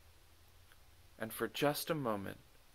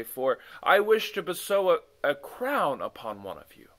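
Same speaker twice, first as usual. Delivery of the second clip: lightly raised, stately royal speech; the king addressing the court; 5 semitones higher, 5 dB louder than usual. Acted. The king questions his messengers, stately. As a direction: pose the question like a wise king.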